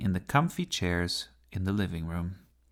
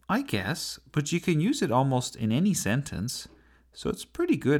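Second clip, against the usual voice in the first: put-on higher-pitched boy character, mildly defensive; young Sebastian, defending himself; 6 semitones higher than usual. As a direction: lightly voice a boy justifying his choice.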